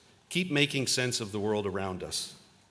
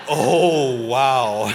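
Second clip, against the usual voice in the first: amazed wow; 3 semitones higher, 12 dB louder than usual. Retold or imitated. Amazed at map distance.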